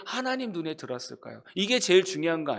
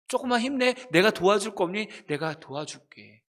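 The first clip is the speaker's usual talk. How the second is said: gentle comfort; 2 semitones higher than usual. Pretend. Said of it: "이렇게 위로했던 사람이라는 거죠".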